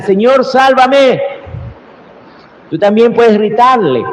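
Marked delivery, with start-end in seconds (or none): 0.0-1.2 high, slow pleading cry. Retold or imitated. Peter sinking calls to the Lord, slow high plea. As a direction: draw out the plea for rescue. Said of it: "le grita".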